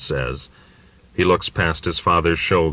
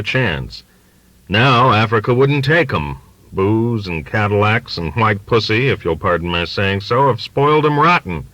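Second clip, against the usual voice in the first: put-on ranting old father; 3 semitones higher than usual. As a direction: let the old man's prejudice boil up into a rant.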